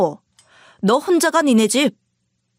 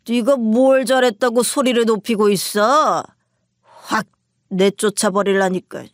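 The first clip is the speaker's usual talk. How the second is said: put-on lightly slurred, drunken shouting; a hint of a drunk husband raising his voice; drunk husband yelling. Husband snatches the phone and yells at his wife, drunk. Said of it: "술에 취한 목소리로 저에게 큰 소리를 냈어요".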